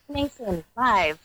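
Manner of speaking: lightly hammed-up event promo voice; Sunday-Sunday announcer. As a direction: plug it like a mock hype announcer. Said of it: "Do you like my Sunday, Sunday, Sunday voice".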